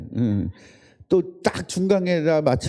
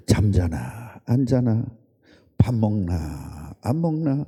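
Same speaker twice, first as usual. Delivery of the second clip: slow teasing; 7 semitones lower, slower than usual. Acted. Pastor silently checking congregation.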